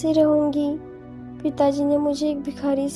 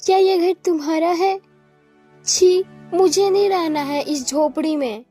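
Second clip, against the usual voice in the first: raised-pitch princess recoiling; mild, higher-voiced disgust and refusal; 4 semitones higher than usual. Princess refuses to live in the hut, disgusted.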